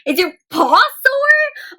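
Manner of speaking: high, slow little panda voice; high sweet cartoon panda. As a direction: coo it like a tiny panda. Narrator voicing panda.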